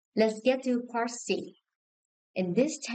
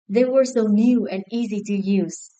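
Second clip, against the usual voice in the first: "so" pushed longer and louder; stress on so; 6 dB louder than usual. Shown as a demonstration. A teacher models the stress for the class. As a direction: punch the word "so". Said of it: "emphasize so and such".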